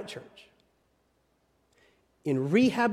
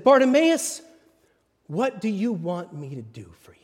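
tender whispered question. Acted. Jesus asking the blind man, tender whisper. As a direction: ask gently, almost under your breath.

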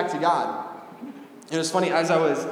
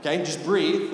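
softer, soothing mom; calming mom; 3 dB quieter than usual. Retold or imitated. Mom calming her frustrated child on the phone, softly soothing. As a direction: gently settle someone down. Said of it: "she told me to calm down".

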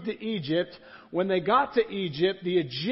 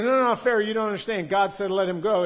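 insistent Moses; 3 semitones higher, 6 dB louder than usual. Acted. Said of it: "And he goes".

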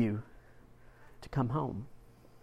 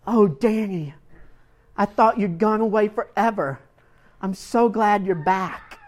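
mother's voice; 5 semitones higher than usual. Retold or imitated. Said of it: "and she says".

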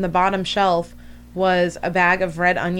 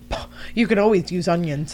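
a hint of boyfriend voice; faster than usual. Retold boyfriend's reply.

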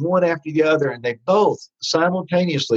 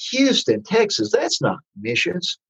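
mock disbelief; 4 semitones higher than usual. His disappointed thought on assignment.

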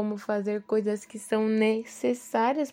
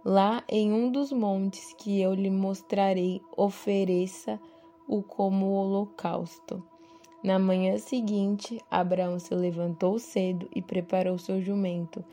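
measured Bible reading aloud; scripture reading. A narrator's reading. Devotional speaker reading Abraão's story to listeners, scripture reading. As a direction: read the passage out with deliberate phrasing.

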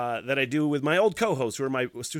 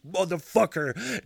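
drawn-out, higher curse; retold frustrated swearing, stretched out slowly; pissed off; 5 semitones higher, slower than usual. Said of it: "fucking relentlessly fucking pissed".

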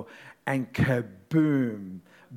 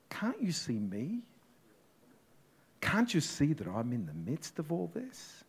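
broken plea; 5 dB quieter than usual. Acted. Disciple pleads to God.

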